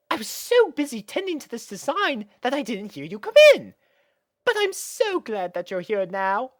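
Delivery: high, refined mare voice; gracious and pleased; gracious lady. Acted. Rarity reassuring Spike, high refined gracious voice.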